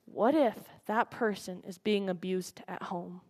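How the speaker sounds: breathless, voiceless whisper as if sharing a secret; hushed whisper. Real, not acted. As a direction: drop to a whisper on the question. Whispered question in anti-bullying speech.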